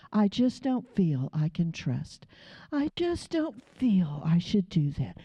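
low, mopey imitation of a hesitant believer; half-hearted mock whine; mocking a whiner. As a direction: lightly mimic a reluctant complainer. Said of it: "fed up with hearing about feelings".

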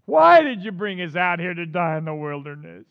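loud, strained wail of complaint; acted desperate outcry to a leader; crying out. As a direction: wail the question out loudly. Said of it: "they cried out to the Lord".

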